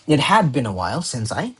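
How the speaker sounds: "had" lifted and punched; emphasis falling on "had"; stress on had. Shown as a demonstration. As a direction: read it out leaning on "had". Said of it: "put emphasis on the had".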